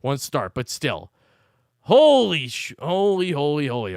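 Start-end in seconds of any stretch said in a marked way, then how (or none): 1.8-4.0 exasperated outburst, tapering off; angry exclamation. Real, not acted. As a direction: cut the curse short and wind down. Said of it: "I'm more angry about this".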